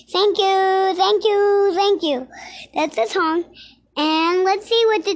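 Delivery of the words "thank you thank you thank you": excited thanks. Pretend. Child bows after song.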